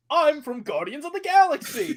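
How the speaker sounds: high, goofy taunt voice; mock a game taunt; Chris Pratt taunt voice. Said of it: "All his taunts will be like".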